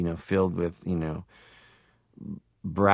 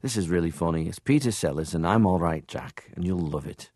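Liverpool dad; 3 semitones lower than usual. Retold or imitated. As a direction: imitate a dad coaxing in a Liverpool accent. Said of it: "my dad had a Liverpool accent".

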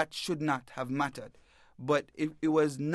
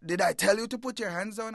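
upset cop; 8 semitones higher than usual. Retold or imitated. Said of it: "he got upset".

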